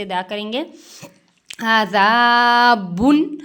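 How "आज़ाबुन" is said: आज़ाबुन with the नून of बुन clearly sounded; clear izhar on bun. Shown as a demonstration. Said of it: "बुन पर इजहार करेंगे". (बुन पर साफ़ इजहार)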